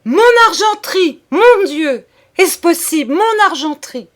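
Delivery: high, loud anguished cry; great cry. A narrator's reading. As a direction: cry out in horror at the empty cases. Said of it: "madame poussa ... un grand cri".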